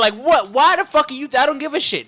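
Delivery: loud, high, angry venting; real frustrated rant. Real, not acted. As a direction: let the anger at the company pour out. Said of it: "companies get me so mad".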